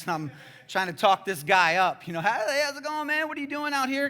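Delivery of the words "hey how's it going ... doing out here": loud, high re-enacted greeting; friendly hail. Preacher re-enacting his hello to a boy on a rock, loud friendly hail. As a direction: call out to a stranger, pitched up and loud.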